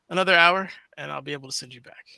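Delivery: lightly voiced old man mutter; weary old man, half under breath; old man grumbles. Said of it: "Are you doing old man grumbles".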